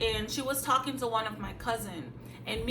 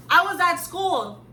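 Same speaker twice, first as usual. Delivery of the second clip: high defiant reply; 7 semitones higher, 6 dB louder than usual. Retold or imitated. Answering abusive father.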